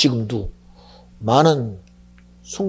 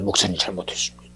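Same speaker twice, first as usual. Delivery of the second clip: tearful apology; 8 semitones lower, 5 dB quieter, faster than usual. Retold or imitated. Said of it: "눈물을 흘리면서".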